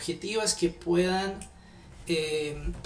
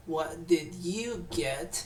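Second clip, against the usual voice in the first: slow model; much slower than usual. Shown as a demonstration. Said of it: "O sea, ¿qué te dieron a ti?".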